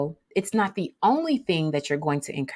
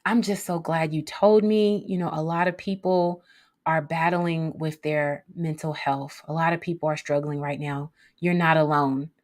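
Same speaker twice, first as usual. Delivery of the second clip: reassuring. Shown as a demonstration. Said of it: "It may also sound like this".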